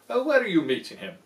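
fast, loud, jittery; hammed-up worried owl; nervous owl. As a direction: rush it anxiously.

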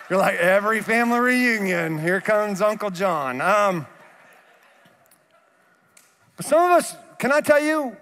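ordinary talk

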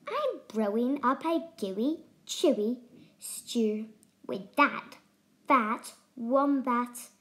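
lightly voiced grinning dingo; toothy grin. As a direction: savour each word with a sly grin. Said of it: "with a toothy grin".

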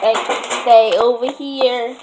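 loud, slow order; stern dog command; firm command to dog. Real, not acted. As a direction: tell the dog to stay, firmly.

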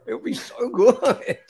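high-pitched giddy delight; gushing excitement. Real, not acted. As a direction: squeak with happy longing. Gushing over a giant pet griffin.

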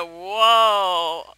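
loud imitated surprised Sim; lightly voiced startled Sim; mock Sim voice. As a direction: ham up the Sim's whoa. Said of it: "He said".

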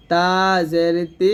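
তা জের তি with light dental t and clear i; thin light ti. Shown as a demonstration. Teacher giving the correct form, thin ti. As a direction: keep তি thin and clean. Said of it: "এটা হবে".

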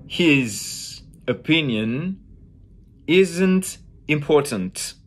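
slow "His opinion isn't important", final consonants sounded; closed English syllables. Shown as a demonstration. Teacher showing how English syllables end, slow closed syllables. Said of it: "syllables end with a consonant".

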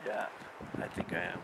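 faint, winded reply; barely any breath left. Real, not acted. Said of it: "You getting elevation sickness?".

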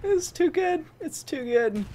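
high and giggly; giggling. Real, not acted. Streamer laughing off his death, giggling. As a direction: say it through leftover laughter.

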